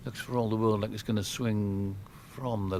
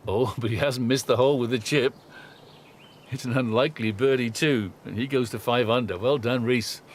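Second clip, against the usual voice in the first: laughing, louder delight at a chip-in; excited commentary; 2 semitones higher, 6 dB louder than usual. Real, not acted. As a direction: call it with a burst of joy. Surprise chip-in birdie.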